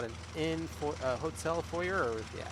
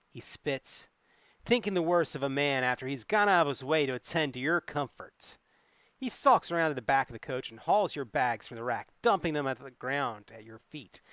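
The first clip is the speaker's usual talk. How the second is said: story narration; 4 dB louder than usual. A narrator's reading. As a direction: read the adventure like a tale to the audience. Reads gamebook narration aloud.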